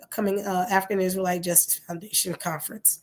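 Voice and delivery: hoarse, losing my voice. Real, not acted. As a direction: talk through a hoarse, worn-out voice. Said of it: "I'm losing my voice even more".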